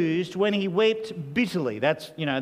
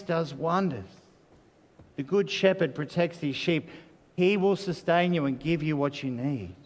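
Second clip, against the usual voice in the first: tender comfort. Real, not acted. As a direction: lean in and console the hurting ones. Preacher turns to comfort hurting listeners.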